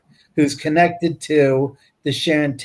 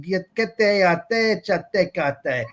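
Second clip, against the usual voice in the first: higher made-up syllables called to the coyotes; mock broken Native American talk; 4 semitones higher than usual. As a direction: playfully fake a broken tribal tongue at the animals. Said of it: "broken Native American tongue".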